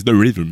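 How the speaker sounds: "the rhythm" said the English way, with an English th; English pronunciation. Shown as a demonstration. Host correcting how to say "the rhythm", in an English accent. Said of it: "t'as vu mon accent dégueulasse".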